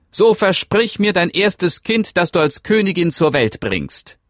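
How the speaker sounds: put-on sly creature demanding the child; demanding little man. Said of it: "verlangte das Männlein". (hohe, fordernde Männleinstimme)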